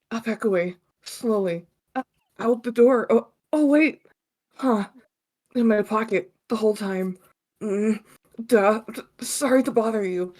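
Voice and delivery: sheepish nerdy hero; earnest fumbling anime hero; anime protagonist voice. Acted. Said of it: "my anime protagonist voice".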